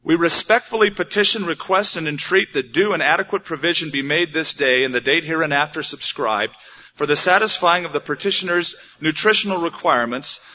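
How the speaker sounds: a lightly voiced stuffy theologian, wordy and formal; mock-official droning petition; pompous theologian. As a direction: read it like a self-important legal petition. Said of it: "it would sound like this".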